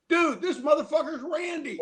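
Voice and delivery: high yell with a laugh in it; retold excited yell. Favre yelling to his cameraman about Randy, high laughing yell. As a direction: shout it to the cameraman, laughing and thrilled. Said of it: "And he yells at".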